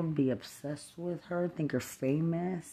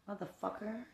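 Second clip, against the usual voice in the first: a much softer, higher muttered curse; 4 semitones higher, 10 dB quieter than usual. Real, not acted. Cursing her under his breath in disgust. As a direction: growl it under your breath.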